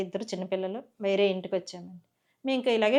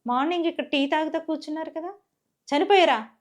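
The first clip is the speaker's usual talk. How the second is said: higher, retold stunned question; mild mock disbelief, a bit higher; shocked disbelief; 6 semitones higher than usual. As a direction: ask it as if you can't believe it. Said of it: "నేను ఆశ్చర్యంగా అనుకుని".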